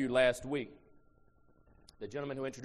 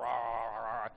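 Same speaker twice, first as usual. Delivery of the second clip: mock tongues; 2 semitones lower than usual. Shown as a demonstration. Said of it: "I'm only doing this for demonstration purpose".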